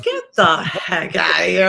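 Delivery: loud, slow, can't believe it; stunned disbelief. Retold or imitated. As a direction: say it like you're floored. Disbelief at celebrity call.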